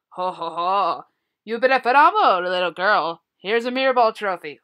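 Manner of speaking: bad mall Santa. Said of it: "That's my worst Santa ever".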